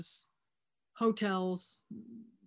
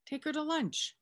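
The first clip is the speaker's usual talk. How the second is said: exasperated repeat; 10 semitones higher than usual. Retold or imitated. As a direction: take her to lunch, pitched much higher in mock exasperation. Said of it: "Are you not getting the theme here?".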